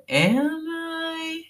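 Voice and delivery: Am I? squeaked very high; high mock question. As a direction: pitch Am I? way up, teasing. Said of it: "ask me".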